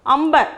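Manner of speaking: "Ambar" as one word with m before b; joined pronunciation. Shown as a demonstration. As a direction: answer with "Ambar", the nasal closed to m. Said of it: "but the pronunciation is what?".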